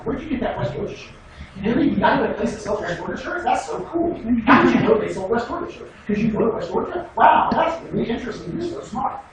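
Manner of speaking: imitating a fawning student; mock cheesy flattery. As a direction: lay the fake compliments on thick. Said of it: "Same thing like".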